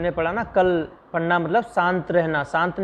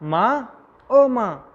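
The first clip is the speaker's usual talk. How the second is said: crying out in pain; 5 semitones higher, much slower than usual. Acted. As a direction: wail it out as the pain hits. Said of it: "दर्द से कहता है".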